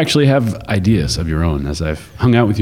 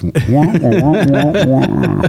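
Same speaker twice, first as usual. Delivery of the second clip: wah wah talk; 5 semitones higher, much slower than usual. Retold or imitated. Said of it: "It's like I hear him talking".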